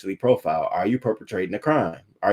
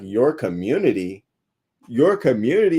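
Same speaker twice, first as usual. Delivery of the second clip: incredulous. Retold or imitated. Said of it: "People was like".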